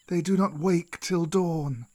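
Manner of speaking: slow, drawn-out serpent voice; old snake Kaa. Acted. Old snake reminds Mowgli of the pack, slow and drawn-out. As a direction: caution slowly as an old serpent. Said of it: "said Kaa".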